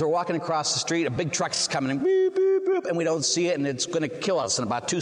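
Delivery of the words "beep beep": sharp high honking beeps; truck horn beeps. Retold or imitated. Imitating a truck horn warning people crossing the street, high and loud. Truck about to hit them.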